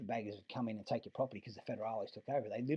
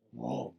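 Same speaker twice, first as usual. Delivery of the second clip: loud "whoa" mimicking a swerving car; sudden, louder imitation of a violent swerve; imitated swerve whoosh; 7 dB louder than usual.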